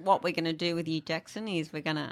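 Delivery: everyday, unhurried Australian accent of a dad; dad's accent. Shown as a demonstration. Surgeon explaining today's operation to the patient, dad's Australian accent. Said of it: "but with Dad's accent".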